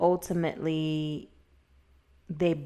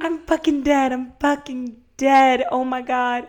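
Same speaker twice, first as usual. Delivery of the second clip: laughing; 7 semitones higher, 9 dB louder than usual. Real, not acted. Laughing disbelief at twist.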